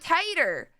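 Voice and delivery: first vowel of "Tater" as in "tie"; Tater as "tighter". Shown as a demonstration. Streamer quoting the show's name, "Tater" said like "tighter". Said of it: "it's pronounced tighter".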